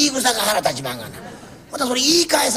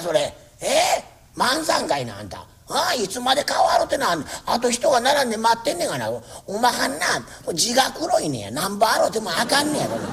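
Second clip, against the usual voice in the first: a lightly voiced fussy old landlord making his rounds; nagging landlord. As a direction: scold each tenant kindly but nonstop. Landlord scolds tenants. (小言好きの家主が長屋を回って小言を言う口調)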